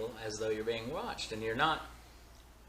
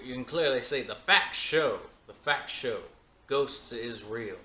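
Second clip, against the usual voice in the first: mock scientist; 6 dB louder than usual. Mocking ghost researchers.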